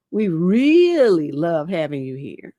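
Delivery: slowed, drawn-out creepy repetition; slow mocking repeat. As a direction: linger on it to show how creepy it is. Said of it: "And he was like".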